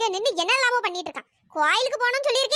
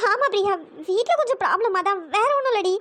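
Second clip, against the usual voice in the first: holding back tears while explaining; tearful excuse; 3 semitones lower than usual. Acted. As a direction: brush off a friend through tears. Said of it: "இப்படி உட்கார்ந்து அழுதுட்டு இருக்க".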